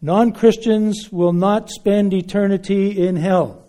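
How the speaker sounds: loud ringing declaration to hecklers; open-air proclamation. Retold or imitated. Preacher answering hecklers, calling out loudly to the crowd.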